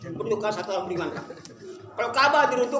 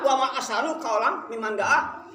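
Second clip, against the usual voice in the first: Quran recitation; slower than usual. Acted.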